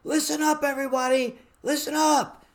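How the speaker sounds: high, loud command to the room; fire chief voice. Retold or imitated. Speaker calling a noisy shelter hall to order, commanding shout. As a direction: bark it over a noisy hall. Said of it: "my best fire chief voice".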